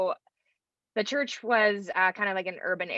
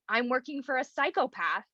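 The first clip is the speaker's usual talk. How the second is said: higher-pitched retold dismay; mock alarm; 6 semitones higher than usual. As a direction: play up horrified disbelief, lightly. Retells panicked reaction to boss.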